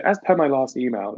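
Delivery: lightly sassy email phrase; a hint of polite sass; mildly sassy sign-off. Shown as a demonstration. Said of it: "it's, like, sassy".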